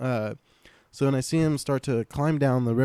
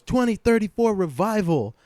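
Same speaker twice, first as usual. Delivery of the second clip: weird stranger; 10 semitones higher, 4 dB louder than usual. Retold or imitated. Strange man repeats the same line.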